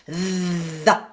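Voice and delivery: "The" with a buzzing voiced th. Shown as a demonstration. Coach models voiced th in the. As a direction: buzz the th of "The". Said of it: "Put your tongue between your teeth".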